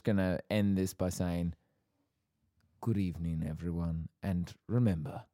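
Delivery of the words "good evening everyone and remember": lightly voiced measured gentleman, slowing down; Harry. Host signs off as the Kingsman Harry, lightly voiced. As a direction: draw the motto out with measured pauses. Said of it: "one could say that I'm Harry".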